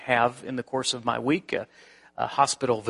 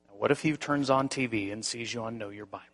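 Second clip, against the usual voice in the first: quiet probing; 3 semitones lower, 7 dB quieter than usual. Retold or imitated. God's voice in thought.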